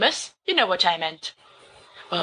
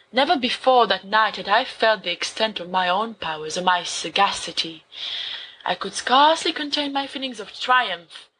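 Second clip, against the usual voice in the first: dramatic story reading. Acted. Remus reads Poe to his friends, dramatic gothic narration. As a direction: read Poe like a madman confessing.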